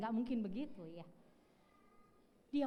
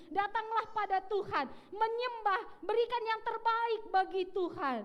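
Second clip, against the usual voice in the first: much higher, louder impassioned urging; fervent plea; 11 semitones higher, 5 dB louder than usual. Retold or imitated. Young man begging the pastor to preach it, loud and high. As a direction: cry it out like a new convert testifying.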